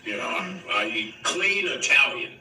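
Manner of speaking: low, slowed gruff imitation; low Harrison impression. Impersonating Harrison Ford's reply.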